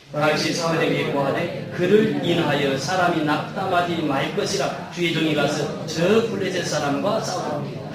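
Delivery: slow, even congregational Bible reading; scripture reading. Acted. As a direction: read the verse out in measured phrases. Reads scripture aloud with congregation.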